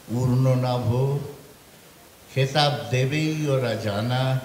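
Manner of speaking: measured verse, dropping on closing phrases; poetry recitation. Acted. Recites third poem. (কবিতা আবৃত্তির সুরে)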